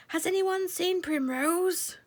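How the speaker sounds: high, slow calling shout. A narrator's reading. Lord Woodmouse calls to the mice, high slow shout. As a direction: call out across the hedge. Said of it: "shouted Lord Woodmouse".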